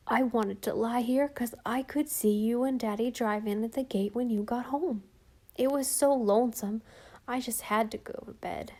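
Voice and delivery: a hint of a small boy explaining himself; lightly voiced child, a touch lonesome; sleepy little boy. Little boy telling his mother why he hid, lightly childlike.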